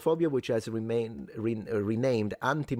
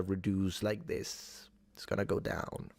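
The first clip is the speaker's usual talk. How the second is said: hushed, breathy-free whisper of a promise; 4 semitones lower, 7 dB quieter, slower than usual. Real, not acted. Host assuring co-host, dropping to a whisper. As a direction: lean in and whisper it.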